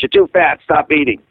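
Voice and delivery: lightly imitated mother scolding; blunt mother. Son mimicking his mother's nagging about weight, blunt scolding. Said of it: "And she's just that way".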